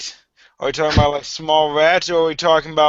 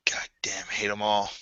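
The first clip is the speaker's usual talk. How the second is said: much softer and lower; quiet, low in-character aside; low grumble; 7 semitones lower, 11 dB quieter than usual. Acted. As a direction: grumble it under your breath.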